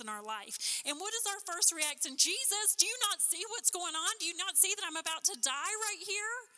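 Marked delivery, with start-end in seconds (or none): 2.2-6.5 high, alarmed plea to a sleeping Jesus; mock panic, pitched up high; panicked cry. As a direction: cry out like you're about to drown. Panicked disciples crying out in storm.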